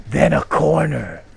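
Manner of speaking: slow, loud, high booming reveal; hammed-up climactic shout; dramatic reveal. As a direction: drag out the twist like a trailer.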